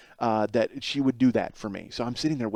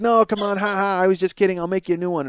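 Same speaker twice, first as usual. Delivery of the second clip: lightly imitated wife, pitched up, forced "ha, ha"; mock placating wife; 5 semitones higher than usual. Wife offers husband a new sandwich, mock placating. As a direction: backtrack in a raised, cajoling voice.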